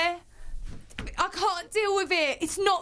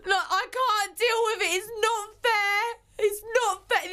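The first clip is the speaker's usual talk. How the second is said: crying; 3 semitones higher than usual. Real, not acted. Distressed housemate complaining of hunger.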